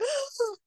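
sharp high gasp of shock. Retold or imitated. Sharp gasp at a friend's hurtful comfort. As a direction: gasp as if struck by the words.

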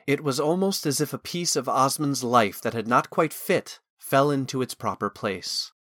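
plain reading voice

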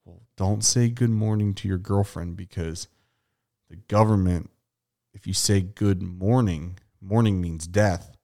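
slow, hushed paranoid musing; mock conspiracy theorist. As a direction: spin it like a stoned conspiracy nut. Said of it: "and I'm like".

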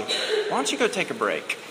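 softly imitating a wise wife; lightly voiced gentle suggestion. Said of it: "she says, very wisely".

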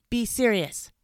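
high, loud scolding; sharp. A narrator's reading. Dentist to joking fox, sharp rebuke. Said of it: "said the dentist sharply".

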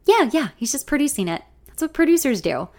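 lifted, lightly amused tone; laughing. A narrator's reading. Man reassuring the songwriter, lightly amused. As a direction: brush it off with amusement. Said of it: "he says, laughing".

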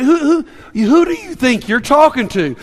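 affronted, stammered comeback; mock indignation at being doubted; indignant. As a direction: stumble into an incredulous challenge. Acting out Jesus' indignant reply.

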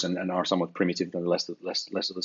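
hoarse, fading voice; losing voice. Real, not acted. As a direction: voice giving out, rough and thin. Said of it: "I'm losing my voice a little bit suddenly".

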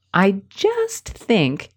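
slow, drawn-out hedge on "just"; mocking hesitancy. Shown as a demonstration. Coach imitating a hedging speaker. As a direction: stretch out "I just think" doubtfully. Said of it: "And then also".

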